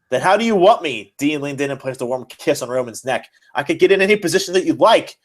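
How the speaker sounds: a lightly hammed-up fan fiction read aloud; dramatic reading. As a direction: read it like a half-joking melodrama for a friend. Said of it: "I'm gonna do a dramatic reading".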